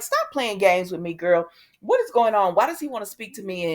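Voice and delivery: mildly indignant retold challenge; retold demand. Lily confronting Amanda over secret meeting, mock indignant. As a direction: act out a sassy demand for answers.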